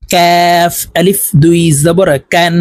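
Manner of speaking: কাফ and কান with k slightly forward of the tongue root; forward Kaf. Shown as a demonstration. Teacher contrasting two letters, forward k in কাফ and কান. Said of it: "জিব্বার গোড়াতে একটু আগে বাড়াইয়া উচ্চারণ".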